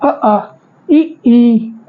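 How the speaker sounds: अ, आ, इ, ई sounded one by one, ending in a laugh; vowel recital. Shown as a demonstration. Teacher reciting vowels as students write them. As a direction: recite अ आ इ ई as separate clear vowels. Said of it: "इनको लिख लेंगे".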